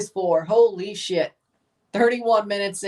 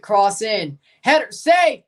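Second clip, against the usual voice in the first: rising, louder play-by-play up to the save; excited play call; 6 dB louder, slower than usual. Real, not acted. Watching the match, calling a save, excited. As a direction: call the save as it happens, building.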